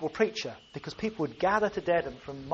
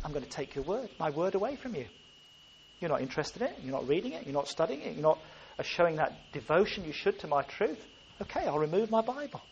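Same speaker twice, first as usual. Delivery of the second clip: impersonating God; 5 dB quieter than usual. Retold or imitated. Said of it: "he begins to impersonate God".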